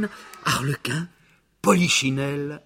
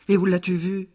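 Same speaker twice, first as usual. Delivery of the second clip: high, eager puppet question; curious puppet; 7 semitones higher, 4 dB louder than usual. A narrator's reading. Puppet asking the fox about his father, high and curious. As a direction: ask it quickly, curious.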